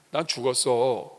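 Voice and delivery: slow, calm and settled; calm reply. Acted. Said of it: "이렇게 얘기하면". (느리고 차분하게 답하는 신자)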